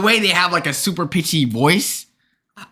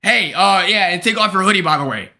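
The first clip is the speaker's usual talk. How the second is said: public callout; 4 semitones higher than usual. Retold or imitated. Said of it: "in front of the class when it's".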